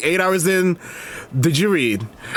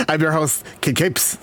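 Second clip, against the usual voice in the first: glib impression; 2 semitones lower than usual. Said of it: "let me do my glib impression".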